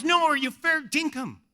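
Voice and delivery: retold earnest insisting; insistent question. Man insists on his question.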